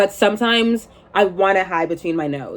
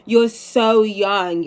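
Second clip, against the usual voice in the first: know-it-all; 2 semitones higher, 3 dB louder, much slower than usual. Retold or imitated. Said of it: "in a more know-it-all voice".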